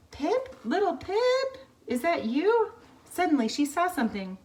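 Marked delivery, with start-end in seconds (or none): 0.1-2.7 much higher and louder, searching parent; calling out. Acted. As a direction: call for your lost chick. Parents calling for lost chick.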